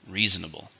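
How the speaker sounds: "Reasonable" stressed on REA, falling after it; stress on first syllable. Shown as a demonstration. Teacher models the word for learners, stressing REA in "Reasonable". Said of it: "stress is on the first".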